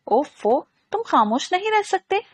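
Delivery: a touch of annoyed huffing at a pest; exasperated. A narrator's reading. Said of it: "वो झिंझला गई".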